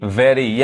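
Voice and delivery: वेरी with an unaspirated v; taught 'v' sound. Shown as a demonstration. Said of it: "व पढ़ाता है". (वेरी को 'व' से शुरू करें)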